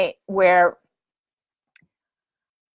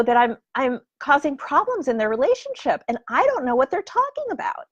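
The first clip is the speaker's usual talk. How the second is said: put-on innocent girl; 6 semitones higher than usual. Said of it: "she said".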